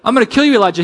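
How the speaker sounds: high, loud mock threat; Jezebel. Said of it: "Jezebel makes a threat".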